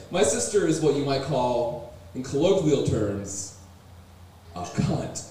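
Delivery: measured, slowing toward a hushed final word; careful politeness. Acted. Comic trying to describe his sister politely, careful and slowing. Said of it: "I'm trying to say this politely".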